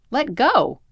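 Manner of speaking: high, loud shouted order; yelled. A narrator's reading. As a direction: yell an urgent command. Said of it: "I yelled".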